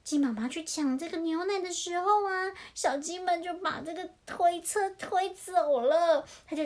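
lilting picture-book narration; children's storytelling. A narrator's reading. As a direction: read it animatedly to little ones.

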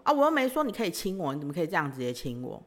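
fast, playful mock sulk; throwing a tantrum. Teasing boyfriend, fast mock tantrum. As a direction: rattle it off like a pretend tantrum. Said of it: "我就继续故意耍脾气跟他说".

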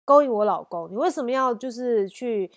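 mock-fierce wife on the phone. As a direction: imitate the wife's sharp accusation, mildly. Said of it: "就变得非常凶".

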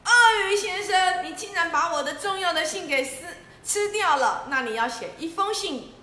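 loud, high scolding of the crocodile; lion scolding the crocodile; angry demand. Acted. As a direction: tell him off sharply. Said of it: "狮子非常的生气".

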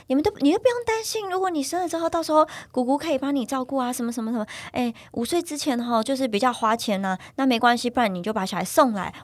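put-on high-pitched busybody relative offering to raise the kid; nosy aunt. Mother imitating a nosy relative offering babysitting, high and pushy. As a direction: imitate a meddling aunt's pushy, high sing-song offer. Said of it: "然后他们就说".

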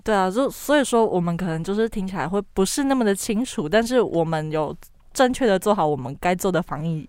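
muffled by a mask; talking behind a mask; through a face mask. Real, not acted.

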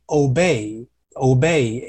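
OBEY very slowly, the BEY vowel drawn out; careful pronunciation. Shown as a demonstration. Teacher telling learners to take note, careful slow obey. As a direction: say obey slowly as a model, stretching each syllable. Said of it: "这个就要注意一下".

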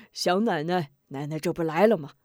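lightly voiced old woman, laughing; a hint of a doting grandma; 老奶奶咯咯笑着说; chuckling old granny. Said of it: "咯咯笑道".

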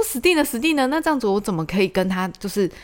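high, rushed replay of her own panic; high-pitched mock panic; panicked inner voice. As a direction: relive the moment you realise you're doomed. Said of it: "很焦虑，很焦虑".

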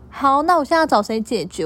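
imitating an irritated customer; angry demand. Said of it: "然后他就很生气的说".

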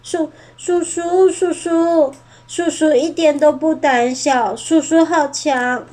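little bird weeping over the fallen uncle; tearful pleading. Acted. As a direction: beg him to wake up.

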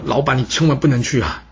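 a touch of mock tears, pitch a little up; understated weeping plea to his master; crying plea. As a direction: lightly act a tearful begging servant. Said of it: "哭着对他说".

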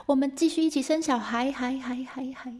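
high call fading into echoes; echoing cave call. Acted. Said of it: "有回音哦".

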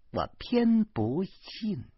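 high, very slow defiance; stubborn comeback. A narrator's reading. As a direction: drag out every word stubbornly.

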